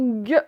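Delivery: gue said alone as a voiced g; teacher models gue clearly; isolated consonant sound. Shown as a demonstration. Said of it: "et non pas que".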